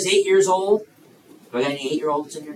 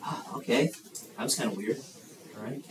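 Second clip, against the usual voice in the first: soft, lower, to himself; puzzled aside; 5 semitones lower, 11 dB quieter, faster than usual. Acted. Boy heads back to bed puzzled, speaking softly.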